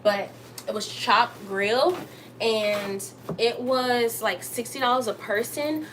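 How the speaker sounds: talking around a retainer; slightly lisped retainer speech; wearing a retainer. Real, not acted. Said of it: "I have my retainers in".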